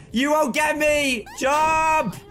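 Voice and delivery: laughing shout. Real, not acted. Dodging enemy attacks.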